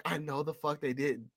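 quiet disbelief. Retold or imitated. Host reacting to the villain's silly defeat, quiet disbelief. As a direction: say it under your breath, appalled. Acted disbelief, then repeated higher.

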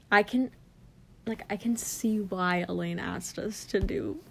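muffled, hand over mouth; words muffled by a palm. Real, not acted. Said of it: "when I put my hand over my mouth".

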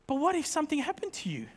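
soft anxious question; worried wife. Retold or imitated. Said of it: "She's like".

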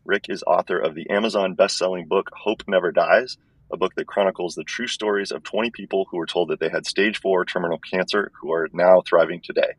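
thin, tinny earbud-mic sound; like talking in a tin can. Real, not acted. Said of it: "It sounds like I'm talking in a tin can".

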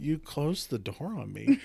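retold dumbfounded accusation; stunned reproach. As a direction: spell it out in disbelief.

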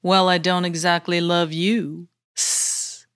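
hissing snake voice; snaky tone. Acted. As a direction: speak like a sly snake. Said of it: "he replied with a snaky tone".

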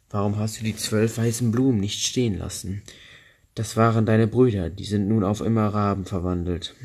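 a hint of the old woman's rebuke; scolding old woman. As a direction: chide her like a stern old crone.

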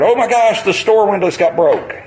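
mildly hammed-up alarm over broken windows; lightly voiced newscaster; mock news gasp. Mocking news coverage of riots.

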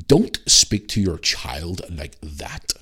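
slow, breathy mock posh scolding; lightly voiced snooty woman telling him off; posh lady. The posh woman scolding a dad, mock whispered. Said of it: "Real posh".

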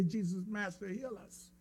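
softly, the wrong request; quiet counter-example. Shown as a demonstration. Preacher softly voicing what the lepers did not say. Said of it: "Notice they didn't say".

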